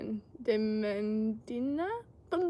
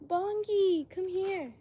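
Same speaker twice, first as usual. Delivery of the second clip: calling the dog; 8 semitones higher, 3 dB louder, much slower than usual. Real, not acted.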